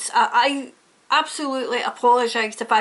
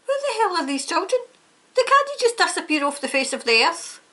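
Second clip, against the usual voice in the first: exasperated anger; 5 semitones higher than usual. Real, not acted. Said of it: "I'm angry".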